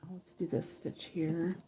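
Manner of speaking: words stretched through a yawn. Real, not acted. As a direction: talk while yawning. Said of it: "I just yawned".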